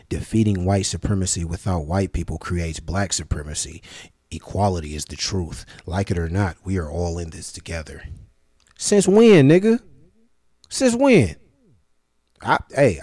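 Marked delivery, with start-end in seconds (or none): 0.1-8.0 lower, softer mock-earnest recital; quoted statement. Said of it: "Niggas say". 8.8-11.3 high, loud disbelief; incredulous retort. Real, not acted. Incredulous retort to quoted claim.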